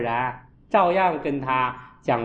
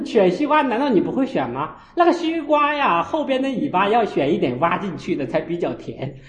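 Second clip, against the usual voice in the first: 1 retold scolding; 5 semitones higher, 3 dB louder than usual. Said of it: "我说".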